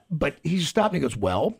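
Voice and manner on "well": imitating a very calm, measured scolding; slow, unruffled voice, shaming rowdies without raising it; composed mock telling-off, taking its time; calm shaming reprimand. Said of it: "with a very calm voice".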